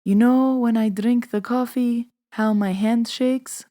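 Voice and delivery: a hint of grandma starting her story; imitated grandma. Grandma tells granddaughter about shaky hands, lightly imitated grandma. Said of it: "So then she tells me".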